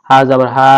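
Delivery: last "হা" held one beat; one-alif lengthening. Shown as a demonstration. Teacher spells ha with zabar, lengthened "হা". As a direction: lengthen the vowel of "হা". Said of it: "এক আলিফ টেনে পড়তে হবে".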